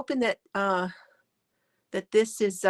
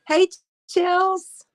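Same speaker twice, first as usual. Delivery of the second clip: high, loud, happy hello; excited greeting; 10 semitones higher, 5 dB louder than usual. Real, not acted. Host cheerfully welcoming a viewer who just joined, excited. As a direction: call out a bright welcome to a friend.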